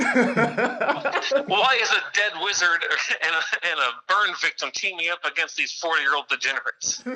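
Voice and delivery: high, drawn-out start, half-laughing; hammed-up incredulous gripe; mock exasperation. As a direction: heckle the plot like a baffled fan. Mock heckling a cartoon's plot.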